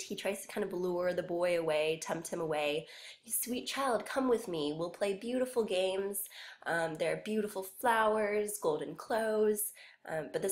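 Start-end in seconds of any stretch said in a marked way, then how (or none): 3.2-9.7 higher, lightly coaxing fairy king; sweet Elf King. Acted. Elf King coaxing the boy away, lightly sweet. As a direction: lure the child in with mock sweetness. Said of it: "the Elf King at first tries to be sweet".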